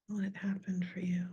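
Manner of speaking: soft whispered repeat; hushed, gentle asking; whispering. Real, not acted.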